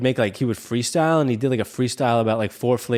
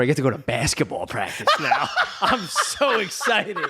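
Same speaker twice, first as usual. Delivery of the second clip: mock excited kid; 9 semitones higher than usual. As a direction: gush like a kid thrilled about basketball. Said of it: "I was, like, excited".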